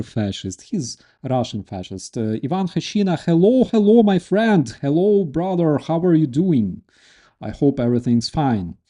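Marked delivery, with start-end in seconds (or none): 2.4-6.8 high, louder burst of hellos; delighted greeting. Real, not acted. Streamer spots a friend in the audience, delighted greeting. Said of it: "I'm so happy to see you here".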